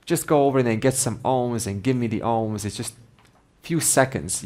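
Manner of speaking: a mildly mock angry snap at the old woman; snapping impatiently. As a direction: scold her for keeping him waiting. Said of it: "He snapped at her".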